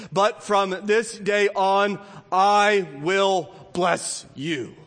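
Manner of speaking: slow, drawn-out promise with weight on I; voice of God. Acted. Pastor voices God's promise to Israel, slow and solemn. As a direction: let each word land, very slowly. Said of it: "God answers that question".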